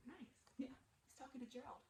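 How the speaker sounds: usual speaking voice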